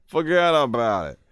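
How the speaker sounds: put-on punchy Brooklyn-accent catchphrase. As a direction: toss it out in a hammed-up Brooklyn accent. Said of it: "That is my Brooklyn accent".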